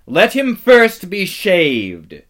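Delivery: loud, slow, cold command; cruel witch voice. A narrator's reading. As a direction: relish the humiliation. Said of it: "said the witch".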